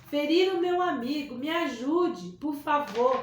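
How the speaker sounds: súplica aflita e alta; implorando. A narrator's reading. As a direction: pedindo ajuda com urgência. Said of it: "disse Elias implorando". (menino implora socorro ao desconhecido, aflito)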